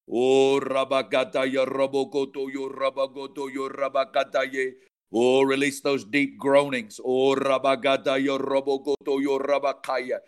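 rhythmic flowing glossolalia, fading at phrase ends; praying in tongues. Real, not acted. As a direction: let the syllables pour out in a chant.

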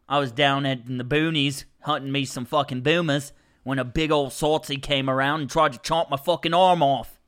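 a light Australian accent, barely there; lightly put-on Aussie bushman accent; casual mock Australian yarn. Shown as a demonstration. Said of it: "I can kinda do me an Australian accent".

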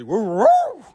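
high loud hype woo; excited whoop. Real, not acted. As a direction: hype up the crowd. Hype intro shout.

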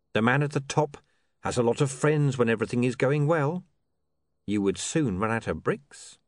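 lightly voiced smooth, measured crook; smooth schemer. Mister Pin questions his partner about bodyguards, smooth and measured. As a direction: reason patiently with a dim partner.

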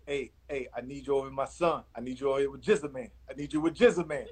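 put-on light Miami accent, quick and casual; playfully imitating a Florida friend in a Miami accent; Edgerrin James Miami accent. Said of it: "Do the, do the accent".

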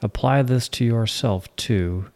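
measured poetry reading with pauses between lines; poem recitation. Acted. Host reads the poem Patience to listeners, poem recitation. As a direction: recite it deliberately, letting each line fall.

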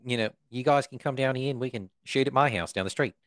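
put-on a light New Zealand accent; casual director in a New Zealand accent. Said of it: "is that a good New Zealand accent".

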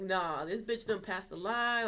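slow, drawn-out retold indignation; pissed, full ratchet. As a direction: stretch out the fed-up declaration. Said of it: "I was pissed, you know, I went full ratchet".

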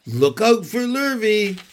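high, loud warning call; urgent cows raising the alarm. A narrator's reading. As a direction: call out danger from afar. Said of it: "called the cows".

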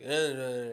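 short grunts of someone unable to speak; mimicked sleep-paralysis moaning; muffled groaning imitation. Imitates stepdad stuck in sleep paralysis.

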